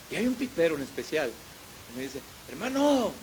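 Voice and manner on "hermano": high hollered call, acting out the water driver; imitated shout. Water-truck driver hails the preacher, imitated shout. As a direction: call out like a man hailing from above. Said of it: "me grita".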